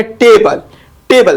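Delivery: टेबल with weight on TE, light BUL; stress on first syllable. Shown as a demonstration. Teacher showing the stress pattern, TE stressed. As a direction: hit TE and let BUL go in टेबल. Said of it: "इस टेबल पर stress दिया हुआ है".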